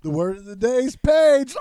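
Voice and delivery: put-on high, loud kids' show host; excited high-pitched playhouse call; secret-word announcement. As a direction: cry it out over the screaming. Calls secret word as Pee Wee.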